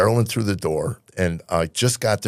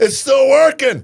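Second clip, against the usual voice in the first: high squeaky voice; 7 dB louder, slower than usual. Pretend. Echoing in the voice.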